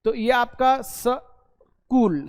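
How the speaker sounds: drawn-out "सकूल" with a vowel before the k; wrong sakool. Shown as a demonstration. Teacher showing pupils the wrong way, slow drawn-out sakool. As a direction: slowly split "सकूल" into sa-kool. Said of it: "सकूल नहीं है".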